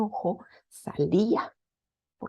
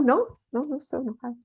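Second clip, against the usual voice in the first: denying anger; 5 semitones higher, faster than usual. Retold or imitated. Acted denial of being angry.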